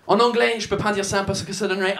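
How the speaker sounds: French with a put-on English accent. Comedian riffing on swearing in an English accent. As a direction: keep the Brit accent going. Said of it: "cet accent de merde".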